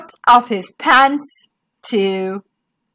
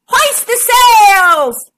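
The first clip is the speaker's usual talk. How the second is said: loud, slow drawn-out command; captain ordering the sails up; 8 semitones higher, 5 dB louder, much slower than usual. Acted. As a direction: bellow the order. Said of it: "ordered Captain Kodai".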